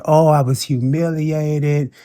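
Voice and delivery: slow, whiny mock quote; mocking his whining; mock whine. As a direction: drag it out like a sulky complaint. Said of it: "whine and cry about it and say".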